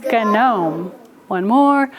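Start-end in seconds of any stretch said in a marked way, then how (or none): 0.1-0.9 gnome with a hard G-uh before the N; old sounded G. Shown as a demonstration. Teacher showing the old way, gnome said as "guh-nome". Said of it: "we used to say".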